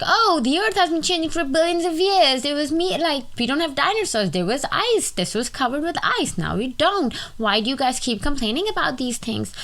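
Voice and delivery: high, mocking skeptic voice. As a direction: mimic a dismissive climate skeptic. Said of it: "where they just be like".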